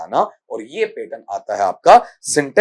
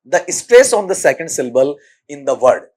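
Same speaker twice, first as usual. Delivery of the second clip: slow question read; 2 semitones higher, 8 dB louder, much slower than usual. Shown as a demonstration. Teacher reads the exam question.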